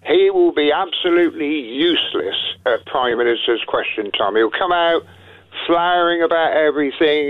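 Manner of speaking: ordinary talk, nothing marked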